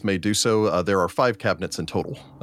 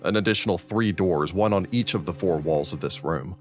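game master scene setting. Acted. Game master reveals a chamber of shelves, narrating.

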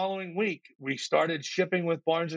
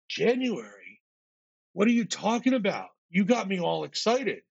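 incredulous objection; 3 semitones higher than usual. Retold or imitated. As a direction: imitate a client balking in disbelief. Client objects to January launch.

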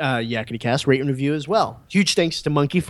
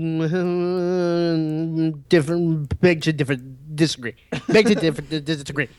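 lightly put-on fumbling disagreement; mock stumbling reply; slower than usual. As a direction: trip over the words on purpose. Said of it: "I can be like".

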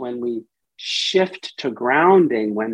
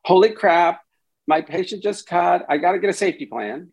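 mock alarm; 5 semitones higher, faster than usual. Shown as a demonstration. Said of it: "as opposed to".

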